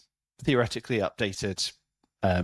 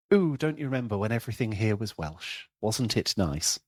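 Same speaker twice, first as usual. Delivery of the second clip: wistful mock old-timer, the last words slowed right down; lightly hammed-up yearning for the old days; a lightly voiced nostalgic local pining for when everything was Welsh; mock nostalgic sigh. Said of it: "Nostalgia is an interesting one".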